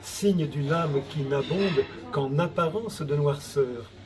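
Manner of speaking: measured octosyllables, evenly paced; poem recitation. Acted. Poet answering a troll in verse, measured poem recitation. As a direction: recite the rhymed reply line by line.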